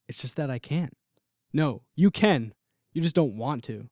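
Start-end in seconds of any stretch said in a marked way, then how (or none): 1.5-3.9 growing anger. Acted. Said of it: "the anger in my voice is starting to become noticeable".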